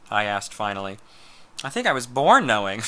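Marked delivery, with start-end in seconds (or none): 1.6-2.9 said through a laugh; amused reply with a laugh. Acted. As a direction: laugh as you answer. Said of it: "Bob laughed".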